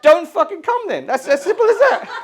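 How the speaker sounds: loud, high, exasperated shout at buyers; exasperated rant. Acted. Comic vents at a buyer who complains, fed-up shout. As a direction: bark it out, fed up.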